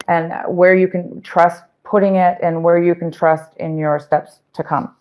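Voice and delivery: hoarse, tiring voice. Real, not acted. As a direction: voice giving out. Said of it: "I'm losing my voice".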